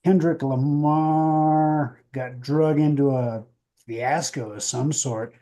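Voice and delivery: showy headline read with swooping pitch; announcer handing over to a co-host; radio news intro. Acted. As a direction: introduce the top story like a radio newscaster. Co-host reads the first headline.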